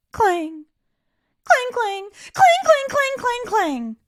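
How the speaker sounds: loud, high, insistent clangs; clanging bell. A narrator's reading. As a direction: ring out each clang like a bell. Boy ringing bell over and over.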